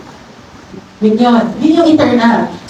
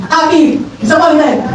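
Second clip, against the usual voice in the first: happy then disappointed. Shown as a demonstration. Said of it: "challenge ng happy, disappointed".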